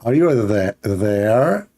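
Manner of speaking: stumbling, drawn-out mock British accent; failed English accent. Shown as a demonstration. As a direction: try an English accent and botch it. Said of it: "This is not how the English people talk".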